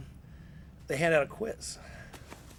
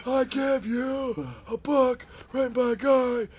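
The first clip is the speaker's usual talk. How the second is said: furious rant; 7 semitones higher than usual. Retold or imitated. Boss berating wrestlers over the unread book, slow furious rant. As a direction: rage at them like a boss who feels disrespected.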